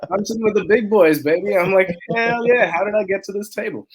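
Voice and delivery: high and loud, hyped up; excited bragging. Real, not acted. Founder hyped to be sitting with billionaires, high and loud. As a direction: crow it like you just made it big. Excited about big investors.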